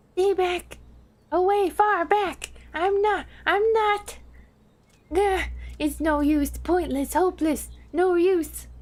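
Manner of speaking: high, panicky little kobold squeal. Acted. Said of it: "My kobold voice".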